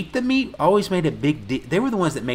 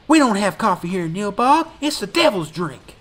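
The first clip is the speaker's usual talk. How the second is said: mock creepy townsman, higher and louder; hammed-up creepy local insisting; creepy old man; 8 semitones higher, 6 dB louder than usual. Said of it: "He said".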